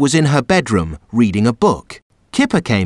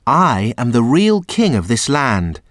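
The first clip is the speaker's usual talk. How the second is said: sadly. Acted. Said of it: "said the boy sadly".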